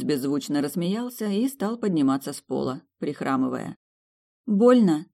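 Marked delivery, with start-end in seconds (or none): 4.5-5.1 guilty. A narrator's reading. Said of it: "виновато спросила".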